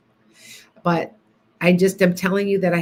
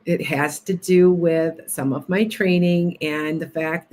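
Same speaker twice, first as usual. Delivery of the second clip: soothing hypnotist voice. Shown as a demonstration. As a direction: lull the viewers toward sleep. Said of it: "go back to my normal self".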